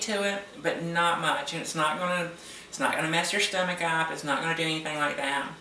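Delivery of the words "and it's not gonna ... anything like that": chewing a chip while talking; crunching chips. Real, not acted. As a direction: talk through a crunchy mouthful. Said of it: "let me finish my chip".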